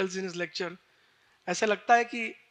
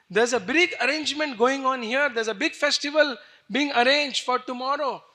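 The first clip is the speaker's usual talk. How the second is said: urgent news; 3 semitones higher, 5 dB louder than usual. Acted. Mantra announcing coronation news.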